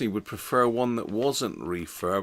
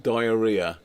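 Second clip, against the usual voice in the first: louder Welsh "diarrhea", falling at the end; Welsh accent; 7 dB louder than usual. Shown as a demonstration. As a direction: show off the Welsh way of saying it. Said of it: "It's a Welsh accent".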